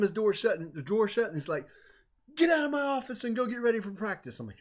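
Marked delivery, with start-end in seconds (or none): 2.4-4.4 higher, firm order to leave; angry dismissal. Retold or imitated. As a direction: send the kid out, still fuming. Director dismissing student.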